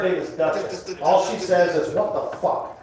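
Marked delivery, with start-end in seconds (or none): 1.9-2.8 unvoiced parrot impression of the wife; parrot mimicking wife. Parrot swearing in the wife's voice, mimicked. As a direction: squawk it as the parrot copying her. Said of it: "says it in my wife's voice".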